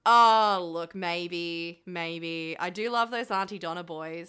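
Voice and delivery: put-on Australian accent. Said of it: "neglected to do an accent".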